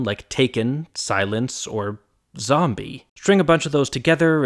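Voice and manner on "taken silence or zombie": taken, silence, zombie, each stressed on its first syllable; TAken, SIlence, ZOMbie, spaced out as examples. Shown as a demonstration. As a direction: list taken, silence, zombie as strong-weak trochees. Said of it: "an accent on the first one".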